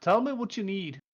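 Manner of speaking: a half-dressed dwarf lord losing patience; impatient dwarf. Acted. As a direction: Doran scolding the visitor. Dwarf pressing.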